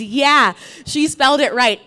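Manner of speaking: loud agreeing call; backing shout. Retold or imitated. Another parent calls out to the judge, loud agreement. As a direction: shout your support across the hall.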